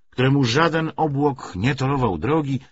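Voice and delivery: plain reading voice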